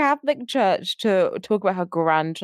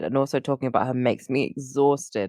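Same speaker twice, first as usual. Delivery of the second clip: tired, low yawning voice; 7 semitones lower than usual. Real, not acted. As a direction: talk through a yawn. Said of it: "I'm yawning because I am tired".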